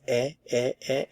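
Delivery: short, separate "e" sounds; isolated vowel sound. Shown as a demonstration. Teacher isolating the unchanged stem vowel, separate "e" sounds. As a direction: repeat the pure "e" vowel by itself. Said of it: "this changes the sound".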